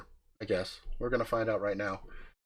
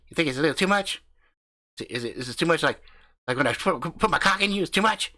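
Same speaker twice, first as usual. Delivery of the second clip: higher-pitched, loud-mouthed redneck host voice; brash country husband hyping up his channel; cocky backwoods YouTuber swaggering through the intro; crude hillbilly husband; 6 semitones higher, 8 dB louder, faster than usual. Acted. Husband mocks wife's complaint.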